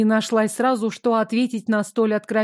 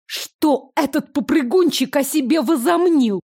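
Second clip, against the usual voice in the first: higher, indignant outburst; angry; 5 semitones higher than usual. Acted. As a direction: vent the anger at him. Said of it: "позволила эмоциям вырваться наружу".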